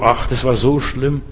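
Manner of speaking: soft, slow mock lament; klagend. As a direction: sigh it out slowly, dwelling on it. Acted brooding over one's past. (leise, langsam gespieltes Wehklagen)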